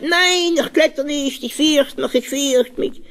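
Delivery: put-on high, frightened child protesting; little boy wailing he won't climb; scared little boy's cry. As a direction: cry out like a terrified small boy refusing to climb. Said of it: "Der kleine Moische schreit".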